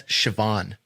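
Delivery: Siobhan said as shi-VAWN; Irish name pronunciation. Shown as a demonstration. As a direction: say Siobhan with a v, stressed on the end. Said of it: "How do you say it?".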